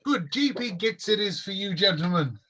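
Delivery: lightly high, courteous host; prim elf shopkeeper. Acted. Elf shopkeeper confirming the tea order, lightly sing-song.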